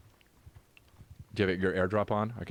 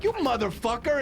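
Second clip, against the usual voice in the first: retold outrage; 13 semitones higher than usual. Retold angry reply to friend.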